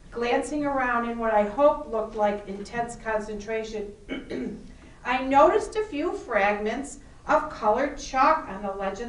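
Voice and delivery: lively first-person book reading; story narration. A narrator's reading. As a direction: read the novel aloud expressively. Reads novel excerpt aloud.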